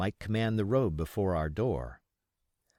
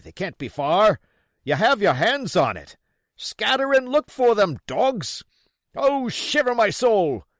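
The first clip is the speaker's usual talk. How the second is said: high, loud furious pleading; raging blind man; 10 semitones higher, 9 dB louder than usual. Acted. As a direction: rage at the men to search. Pugh rages.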